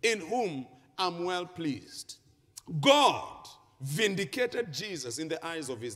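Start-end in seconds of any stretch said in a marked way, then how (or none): 0.0-2.2 slow, loud, high proclamation; thundering declaration, drawn out; voice from heaven. Acted. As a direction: proclaim it as God, stretching each word. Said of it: "The voice said".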